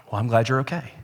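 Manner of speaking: curt, unimpressed retelling of the wife; deadpan, the letdown answer; flat wife reply. Retold or imitated. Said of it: "Brittany looked and she said".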